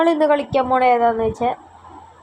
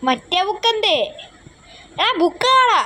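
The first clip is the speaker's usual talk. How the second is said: where's that book, anxious and high; high frustrated search; 7 semitones higher than usual. Real, not acted. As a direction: pitch up, puzzled and urgent.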